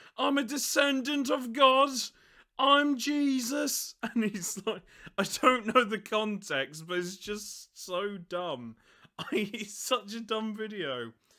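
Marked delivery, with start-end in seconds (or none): 0.2-3.9 mock wild shout, loud, high-pitched and raving. Retelling a video of a car thief in his car, imitating a man shouting. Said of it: "he's just shouting".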